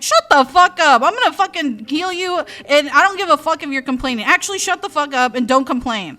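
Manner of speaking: hammed-up furious medicine cat; mock angry rant. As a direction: play the rude healer snapping. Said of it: "And he's like".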